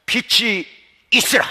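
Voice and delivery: God's command. Acted. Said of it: "주의 이렇게 말씀하셨어요".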